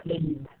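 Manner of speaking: "played" ending in a voiced D; final D sound. Shown as a demonstration. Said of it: "عم بلفظها ك D".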